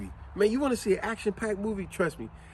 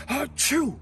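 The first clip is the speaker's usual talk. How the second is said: light fake sneeze; a quick mock achoo; imitated sneeze; 8 semitones higher than usual. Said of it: "people sneeze".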